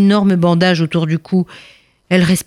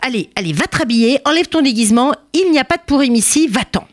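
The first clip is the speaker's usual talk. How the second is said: quick, high guard waving him off; dismissive officer; 5 semitones higher, faster than usual. Acted. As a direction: brush him off briskly.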